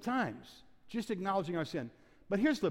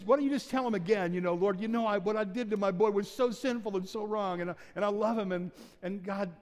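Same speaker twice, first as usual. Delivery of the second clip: urging prayer; 3 semitones higher than usual. Retold or imitated. Pastor urging weeping father and son to kneel and pray, eager. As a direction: lift them toward prayer with urgency.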